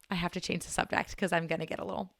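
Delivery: softly holding back tears; a little teary. Real, not acted. Podcaster changing the subject before tears come, a little teary. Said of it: "I'm gonna get a little teary".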